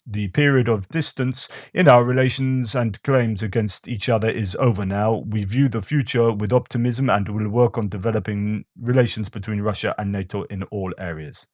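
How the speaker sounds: amateur imitation of a Russian accent; bad Russian accent. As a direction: read it out in a badly faked Russian accent. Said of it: "a Russian said this".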